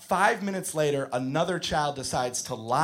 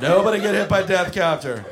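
warning shout; 5 dB louder than usual. Retold or imitated. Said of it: "I lose my shit".

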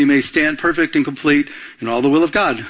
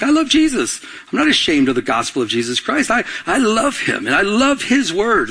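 excited believer; 5 semitones higher than usual. Pretend. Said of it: "excited about the Lord".

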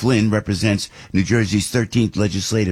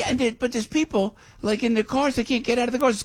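worked up. Real, not acted. Outraged about flood victims.

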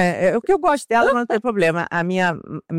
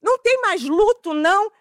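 indignant question; 11 semitones higher than usual. Retold or imitated. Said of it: "eu tava ofendidíssima".

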